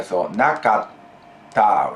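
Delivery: "nakatta" drawn out slowly with a held stop before "ta"; slow "nakatta" with a one-beat catch; held double t. Shown as a demonstration. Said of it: "the two T's here".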